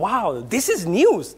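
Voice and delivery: understated wow with swooping pitch; lightly hammed-up surprise; mock astonishment. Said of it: "এটা শুনে আমি সত্যি আশ্চর্য হলাম".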